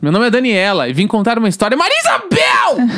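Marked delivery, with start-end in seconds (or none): 1.8-2.9 high, slow drawn-out call. Real, not acted. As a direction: sing out her name up high. Calling out co-host's name. (chamada alta e arrastada)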